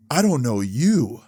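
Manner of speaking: slow, mildly out-of-it retelling; imitating intoxicated stranger. Intruder answering the homeowner, imitated as slow and intoxicated. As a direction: say it slowly, like someone a bit wasted. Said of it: "he sounds kinda, like, fucked up".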